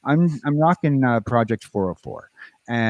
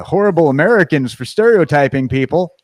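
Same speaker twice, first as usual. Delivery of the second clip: sarcasm; 5 semitones higher, 6 dB louder than usual. Real, not acted. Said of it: "Sorry, sarcasm".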